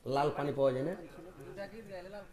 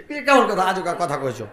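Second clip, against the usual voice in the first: mock astonished; 2 semitones higher, 7 dB louder than usual. Wife hears odd request.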